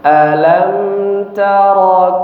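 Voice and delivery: slow, drawn-out chanted recitation; measured melodic tajwid chant; Quran recitation. Shown as a demonstration. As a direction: chant it slowly like tilawah. Teacher recites verse one twice.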